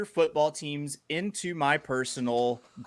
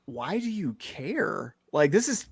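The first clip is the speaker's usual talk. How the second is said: lightly voiced puzzled wife; imitating wife; 4 semitones higher than usual. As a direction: mimic an exasperated wife asking why. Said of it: "And she goes".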